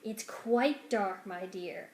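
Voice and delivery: slow, silky rat voice, lightly voiced; drawn-out oily rat; sly rat. Rat answering servant girl from her pocket, slow and silky.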